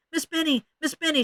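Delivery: high, whiny appeal to teacher; distressed cry. A narrator's reading. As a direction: call for the teacher in high-pitched upset. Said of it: "she cried".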